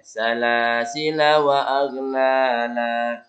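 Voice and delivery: "Salasila" linked on with short la; continued reading. Shown as a demonstration. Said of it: "kalau dilanjutkan pendek lanya".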